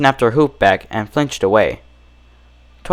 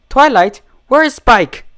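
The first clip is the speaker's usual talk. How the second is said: high, anxious plea; pleading Rarity; 12 semitones higher than usual. Acted. Rarity pleading with her strange friend. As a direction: plead gently but urgently.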